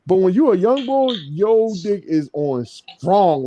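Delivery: normal talking voice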